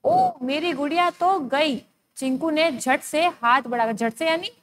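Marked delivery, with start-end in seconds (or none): 0.0-1.8 drawn-out mock alarm, higher and slow; a child's dismayed cry, mildly hammed. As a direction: wail it slowly as if the doll is lost. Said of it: "Meenu की चीख निकल गई थी".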